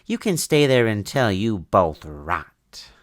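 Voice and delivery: slow, sneering villain voice; villain's taunt. Acted. Villain sneering at the captives. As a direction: gloat over the trapped pair.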